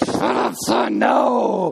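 high, sharp mock rebuke; mock snap at son. Father at his son about the dandelion, mock angry snap. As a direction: bark it at the kid in jest. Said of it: "And you're like".

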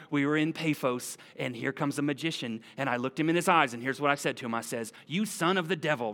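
put-on a light southern accent for Paul. Paul at the mic retelling his trip to the church, lightly put-on southern accent. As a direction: tell it as a storyteller with a touch of southern accent. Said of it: "he had a southern accent".

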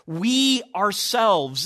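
slow, stress on "We", "ourselves" drawn out; emphatic. Shown as a demonstration. Preacher stressing the verse to the congregation, emphatic and slow. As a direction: lean hard on "We" and let "ourselves" land. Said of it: "the way that he expresses this is very emphatic".

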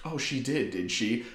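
soft, ominous teacher; quiet menace. Retold or imitated.

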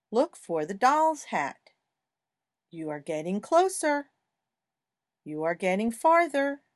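gentle sing-song word reading; reading to a toddler. Acted. Reads vocabulary aloud to toddler.

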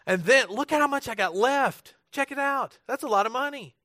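high, bouncy showman's excitement; broad singsong kids theatre. Acted. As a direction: play it big for the crowd. Showing off leftover money.

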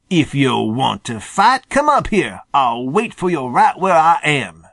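mild acted sputter, climbing high mid-line; a touch of a possum spluttering with rage; understated angry sputter from a safe perch. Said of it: "he sputtered".

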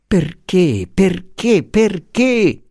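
high, rising 'perché' climbing each time; the professor pleading to understand, pitch mounting; anxious old professor. Acted. Beniamino interrupting Luisa, high and pleading. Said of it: "interruppe il buon Beniamino".

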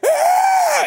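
high, loud scream; imitated sudden scream. Man in church cries out, imitated sudden scream. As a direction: shriek like a man suddenly set off. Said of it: "he literally went".

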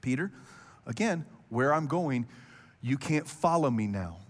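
calm, confident voice of Jesus; steady and patient, no hurry. Retold or imitated. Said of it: "He calmly and confidently just says".

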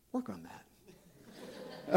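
soft, slow, laughing whisper; whispered aside. Real, not acted. Pastor whispering a joke to the congregation, soft and slow. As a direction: slip it in as a wry whispered tag. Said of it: "wry whispered joke".

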